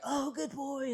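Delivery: high, gushing praise; excited praise. Shown as a demonstration. Trainer showing viewers the excited praise to avoid. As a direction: let the voice jump up with delight. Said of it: "change the tone of your voice".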